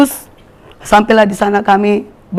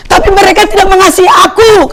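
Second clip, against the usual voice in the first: voice of God; 11 semitones higher, 5 dB louder than usual. Retold or imitated. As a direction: speak as the Lord grieving over them. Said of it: "kata Tuhan".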